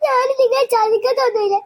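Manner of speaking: mild tearful plea, voice catching; tearful pleading. Acted. Hurt little sister pleading with her family, tearful. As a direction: plead through held-back tears.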